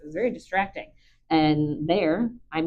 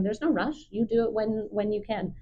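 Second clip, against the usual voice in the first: reassuring; 3 semitones higher, 4 dB quieter than usual. Shown as a demonstration. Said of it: "waiting and saying".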